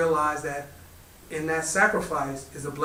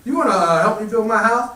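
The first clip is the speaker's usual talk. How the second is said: pleading Byforce; 5 semitones higher, 5 dB louder than usual. A narrator's reading. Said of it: "He said".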